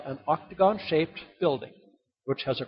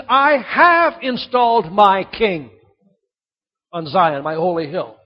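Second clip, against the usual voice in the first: slow, louder royal decree; firm declaration; 2 semitones higher, 7 dB louder than usual. Acted. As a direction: proclaim it slowly with full authority. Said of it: "He says".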